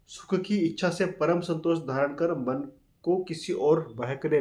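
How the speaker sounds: slow, deliberate recital of the verse; teacher reciting a verse slowly to students; slow scripture reading. Acted. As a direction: read it out like a sacred text. Reads verse translation slowly.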